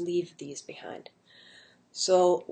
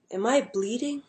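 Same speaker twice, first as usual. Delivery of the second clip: confused question; 5 semitones higher than usual. Retold or imitated. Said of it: "I just remember asking them".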